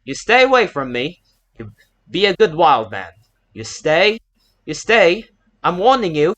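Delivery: high, loud mock movie warning; Tarzan movie line. Quoting Tarzan, hammed-up high loud warning. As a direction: ham up the jungle warning, pitched high. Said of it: "I know I copied that from Tarzan".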